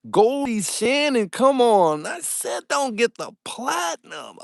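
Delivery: high, loud, drawn-out exclamation; excited shout. Real, not acted. Streamer reacts to a member's platinum gift, excited shout. Thrilled by viewer's membership upgrade.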